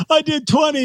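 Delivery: put-on high, triumphant little boy; proud kid voice. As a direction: crow it like a proud four-year-old. Child proud after counting.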